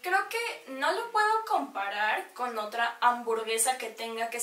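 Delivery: chewing while speaking; eating and talking at once; mouth partly full. Real, not acted. Seen 0: holds burger, lips pursed and working as if chewing.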